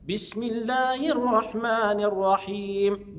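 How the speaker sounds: slow, measured Quranic recitation; basmala recitation demo. Shown as a demonstration. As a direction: recite deliberately with long drawn vowels. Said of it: "هنخش على البسملة". (تلاوة متأنية للبسملة)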